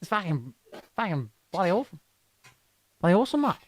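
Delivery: offhand Aussie swearing; put-on Australian, rising endings; Australian accent. Shown as a demonstration. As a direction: curse away in an Australian accent. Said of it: "do an Australian accent without cursing".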